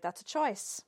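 dry judgment. Retold or imitated. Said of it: "we'd be like".

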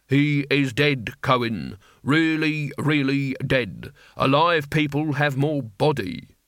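put-on slow, blunt old warrior; gruff old barbarian. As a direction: lay it out slowly and bluntly.

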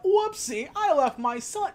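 high, light mock-casual shrug; mock breezy whoopsie. Mom shrugging off leaving her son, mock breezy. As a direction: toss it off like a tiny oops. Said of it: "just like a".

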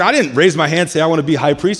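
defensive, with pitch lifted; mock protest. Aaron tells grumblers he never volunteered, protesting. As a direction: protest as if wrongly blamed.

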